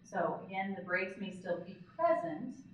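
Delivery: normal talking voice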